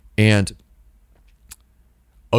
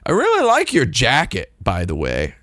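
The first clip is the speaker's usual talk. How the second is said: mock tourist girl; 3 semitones higher than usual. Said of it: "she just says".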